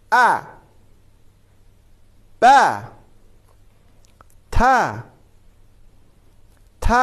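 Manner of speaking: each letter with fatha, "ا، ب، ت" said singly with long pauses; letters read for repeating. Shown as a demonstration. Teacher reads the alphabet table for children to repeat. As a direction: call out each letter then wait for the echo.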